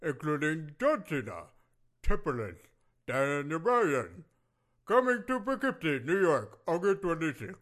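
hyped event ad read; radio drop. Acted. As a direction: announce the show like radio. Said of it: "are you doing radio drops".

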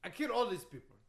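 put-on indignant, accented list of victims; Iron Sheik. Wrestler boasting to a doubting host, indignant accent. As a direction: insist on it in broken English. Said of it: "that Iron Sheik impression".

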